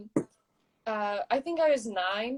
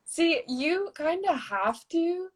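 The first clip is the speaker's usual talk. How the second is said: whisper; 6 semitones higher, slower than usual. Real, not acted. Whispered aside about accents.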